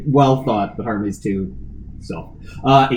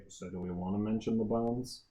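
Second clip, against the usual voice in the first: under her breath; 8 dB quieter than usual. Acted. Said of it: "under her breath to Ash say".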